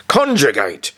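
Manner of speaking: a stern teacher's loud, high roar; teacher roaring an order at a silent class. A narrator's reading. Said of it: "Führer Blüchner roared".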